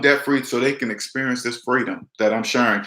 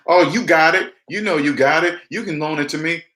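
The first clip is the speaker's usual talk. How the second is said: higher, pleading mock voice; mocking a pushy relative; 3 semitones higher than usual. Relatives in debt begging for a loan, mock pleading. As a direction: whine like someone wanting a loan. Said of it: "this is what they say".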